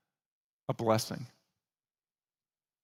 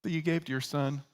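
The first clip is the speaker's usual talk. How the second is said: much higher, feigned innocent question; mock innocent brothers; 5 semitones higher than usual. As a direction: play it falsely sweet and innocent. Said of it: "They say".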